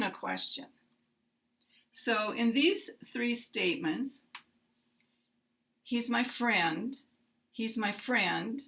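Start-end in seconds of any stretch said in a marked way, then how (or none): 5.8-8.6 slight lift on "friend", then glide down; unstressed "He's my", falling glide on "friend"; falling intonation. Shown as a demonstration. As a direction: let "friend" glide downward as a statement. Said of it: "we have falling intonation".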